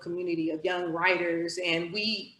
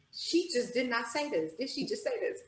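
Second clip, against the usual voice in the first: softer, near-whispered wondering; hushed disbelief; 3 semitones higher, 7 dB quieter than usual. Retold or imitated. Beside the coach's ear, softer stunned wondering. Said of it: "I'm beside her ear".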